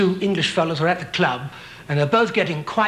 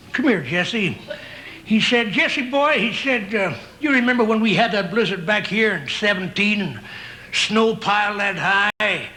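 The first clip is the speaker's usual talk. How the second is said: a hint of a grizzled ranch hand; old Western cowboy; 3 semitones higher than usual. Old cowboy reminiscing to his pal.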